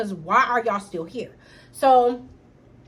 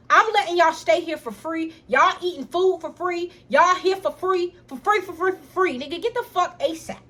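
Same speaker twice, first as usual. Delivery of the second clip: higher, slowing on for free, for free; angry rant; 6 semitones higher than usual. Retold or imitated. Sister throwing brother out, pitch raised and insistent. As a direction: hammer each for free home. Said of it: "I was like".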